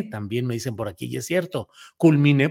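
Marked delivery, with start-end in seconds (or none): 2.0-2.5 "culminé" punched loudly, stressed on the final é. Shown as a demonstration. Host correcting a missing accent mark, loud stressed é in "culminé". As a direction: hit the last syllable of "culminé" hard. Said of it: "debe llevar tilde en la E".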